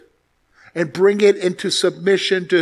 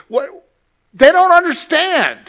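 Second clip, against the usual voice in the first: emphatic shout; 11 semitones higher, 6 dB louder than usual. Real, not acted. Emphatic exclamation.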